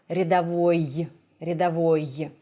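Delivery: "рядовой" closing on a y as in English "yes"; sharp final y. Shown as a demonstration. Teacher likening it to yes or yellow, sharp y ending. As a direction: finish "рядовой" on a crisp y. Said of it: "it's similar to".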